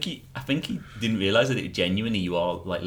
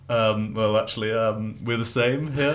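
imitating Willie; 3 semitones higher, 11 dB louder, slower than usual. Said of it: "And he goes".

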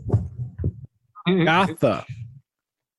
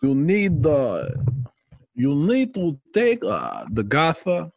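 put-on slow German accent that slides toward Russian; muddled German-Russian accent, dragged out; attempted German accent; slower than usual. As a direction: try a halting, not-quite-German accent. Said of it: "that's not German".

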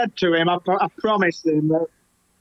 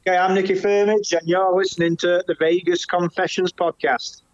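put-on Australian accent. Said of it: "It'll sound like an Australian".

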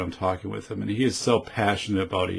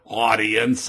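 Brooklyn accent. Shown as a demonstration. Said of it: "as I'm speaking in my, my kind of Brooklyn accent".

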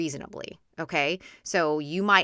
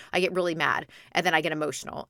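ordinary talk

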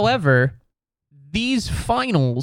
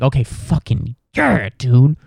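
loud, gushing, breathless mock excitement; giddy league execs; 4 dB louder than usual. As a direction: gush like a fan who just got his dream matchup. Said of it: "They were like".

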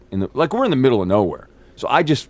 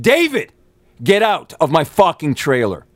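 high, forceful angry command; re-enacted angry outburst; 6 semitones higher, 4 dB louder than usual. Actor throwing David out of his trailer, angry and raised. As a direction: cut him off with a high, exasperated order. Escalates the order when interrupted.

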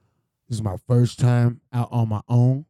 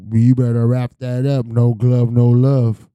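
stern warning; 6 dB louder, slower than usual. Retold or imitated. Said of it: "You tell them boys".

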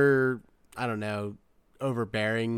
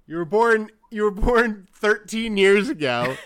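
laughing taunt; 9 semitones higher, 7 dB louder than usual. Retold or imitated. Taunting the complainers.

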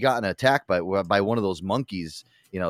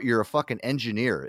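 ordinary talk, nothing marked

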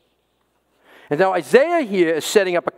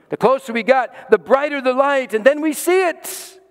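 rising excitement; 8 semitones higher than usual. Retold or imitated. Climax of retold drive.

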